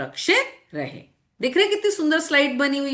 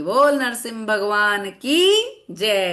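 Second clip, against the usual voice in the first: devotional cheer; 3 dB louder, slower than usual. Acted. Teacher leads devotional cheer.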